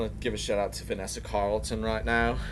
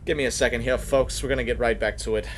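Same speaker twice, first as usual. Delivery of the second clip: louder, brisk host signoff; radio host voice; 3 semitones higher, 5 dB louder than usual. Acted. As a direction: announce the break like a DJ. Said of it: "host cutting to a break".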